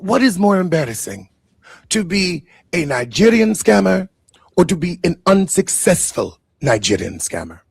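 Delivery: a light put-on Nigerian accent, mock-mournful; mock Nigerian preacher lamenting. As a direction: lament the family's foolishness in a hammed-up Nigerian accent. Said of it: "That's the best accent I could do".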